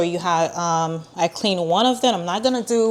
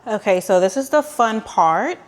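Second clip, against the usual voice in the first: sarcastic. Real, not acted. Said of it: "I was being sarcastic".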